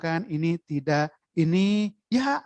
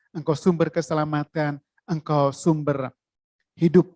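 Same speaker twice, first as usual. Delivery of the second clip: closing prayer; 2 semitones lower than usual. Acted. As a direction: pray over the congregation humbly.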